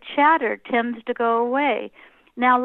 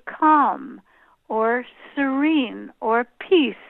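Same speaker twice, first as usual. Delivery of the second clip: slow exhale word; slower than usual. Shown as a demonstration. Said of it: "And then when I exhale".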